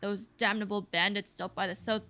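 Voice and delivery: lightly voiced surly ox; grim ox farmer. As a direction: recount it as a grumpy farming ox. Plays the ox farmer.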